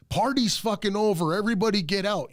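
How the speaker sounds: imitating a cop clearing a house party; mock cop order.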